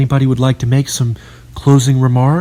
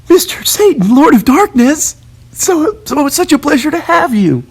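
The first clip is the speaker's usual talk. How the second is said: mock awed welcome; 3 dB louder than usual. Greeting Satan in awe.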